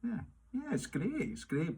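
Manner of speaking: high, slow gushing that hides doubt; fake enthusiasm. Tasting someone's proud fish and chips, fake delight. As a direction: pretend to love the food, drawn out and high. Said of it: "you go".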